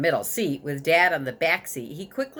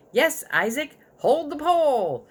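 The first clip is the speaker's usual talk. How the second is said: louder and higher, half a shout; dad starting to shout; 9 semitones higher, 4 dB louder than usual. A narrator's reading. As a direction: snap it out like a startled father. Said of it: "Dad started to shout".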